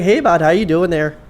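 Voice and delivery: friendly mock-Minnesotan greeting; Minnesotan accent. Man going out to see his neighbours, imitated Minnesotan accent. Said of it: "that Minnesotan accent".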